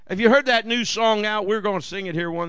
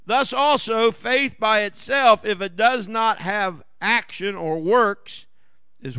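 scripture reading; slower than usual. Acted. Reads scripture aloud.

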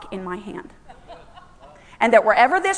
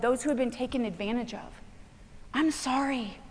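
tender reassurance. Real, not acted. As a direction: speak gently to those who were hurt. Preacher consoles those badly hurt.

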